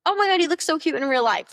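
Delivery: high, bright excited compliment; gushing compliment. Shown as a demonstration. A dating coach demonstrating a compliment for the date, gushing. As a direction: gush over his outfit. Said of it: "Here are some of my go-to compliments".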